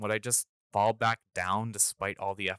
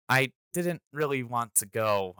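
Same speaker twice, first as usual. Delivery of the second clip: sheepish; 3 semitones higher, 3 dB louder than usual. Retold or imitated. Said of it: "I sheepishly admitted".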